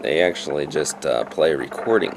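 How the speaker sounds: rough early-morning voice, just woken up; groggy morning voice. Real, not acted. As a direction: speak with a croaky four a.m. voice. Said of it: "as you can tell from my voice".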